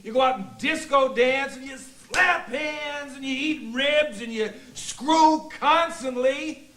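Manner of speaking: exasperated, bitter tirade; shouting rant. Acted. Husband raging at Bill in group therapy, shouting rant. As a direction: rant at them in aggrieved outbursts. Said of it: "but you're shouting!".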